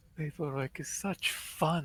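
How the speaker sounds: heavily sarcastic, dripping with sarcasm. Remarking on all the paperwork: heavy sarcasm.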